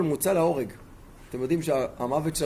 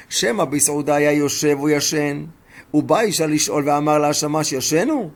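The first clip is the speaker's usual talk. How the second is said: forceful retelling; 7 dB louder than usual. Retold or imitated. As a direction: hammer each clause home. Retold rebuke voiced with force.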